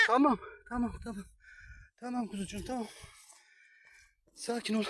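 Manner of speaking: soft, hushed reassurance; soothing. Real, not acted. Ürkmüş yavruyu sakinleştiriyor. (yumuşak, alçak sesle sakinleştirme)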